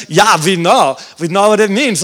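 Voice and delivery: put-on light German accent, V for W. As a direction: imitate a German with confidence. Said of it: "I met some Germans".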